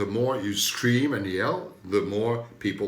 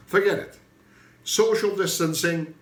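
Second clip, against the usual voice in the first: emphatic; 7 semitones higher, 7 dB louder than usual. Real, not acted. Emphatic insistence on no distancing.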